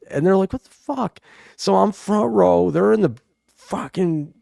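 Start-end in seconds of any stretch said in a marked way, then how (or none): 0.5-1.2 high, disbelieving shouted question; mock buddies yelling. Retelling friends at the concert, in a high mock yell. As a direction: play his jealous friends calling out.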